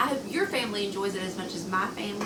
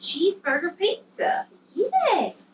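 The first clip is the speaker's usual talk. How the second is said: excited; 8 semitones higher than usual. Real, not acted. Mom echoes the child's excitement.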